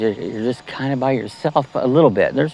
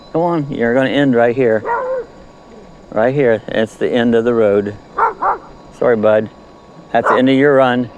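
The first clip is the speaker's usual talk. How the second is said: raised voice calling the dog; 4 dB louder than usual. Real, not acted. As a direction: call him in from the bike. Calling the dog, end of run.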